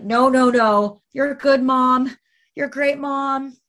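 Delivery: high, pleading man's backpedal; mock pleading, suddenly conciliatory; retold backpedaling ex. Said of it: "his tune changed suddenly".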